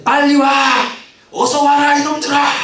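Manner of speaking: high, loud pretend shout to the ships; shouting orders. Lecturer imagines Yi Sun-sin yelling at his ships, loud high shout. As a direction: yell at the ships to hurry and come. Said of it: "막 소리치고 했으면".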